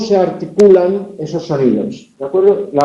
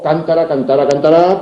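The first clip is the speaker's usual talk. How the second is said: cántara, cantara, cantará, each stressed one syllable later; shifting word stress. Shown as a demonstration. Teacher separating noun from two verbs, shifting stress on cántara, cantara, cantará. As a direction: step the stress from CÁN to TA to RÁ. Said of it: "esa movilidad del acento".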